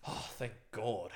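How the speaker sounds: slow, drawn-out relief; relieved. Retold or imitated. Man relieved the bad spirit has gone, relieved. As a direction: let the words out like a long sigh. Relief after sending her away.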